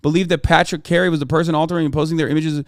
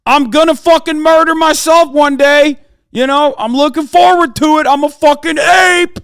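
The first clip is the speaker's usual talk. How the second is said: loud, much higher, hammed-up shout; ape-brained bro yelling nonsense to a victim's family; mock caveman bro; 8 semitones higher, 8 dB louder than usual. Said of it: "Tell the family members of".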